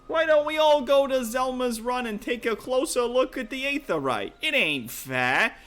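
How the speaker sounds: rally the party with swagger; rough adventurer NPC. Acted. Rough NPC invites onward.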